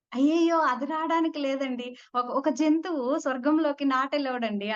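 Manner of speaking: a dog can't come to heaven, panicky refusal; flustered refusal. Retold or imitated. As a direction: protest in alarm that a dog can't enter heaven.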